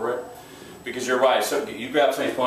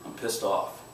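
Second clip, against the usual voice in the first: pissed off; 7 dB quieter, slower than usual. Shown as a demonstration. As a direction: growl it under your breath, furious. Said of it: "I'm gonna say".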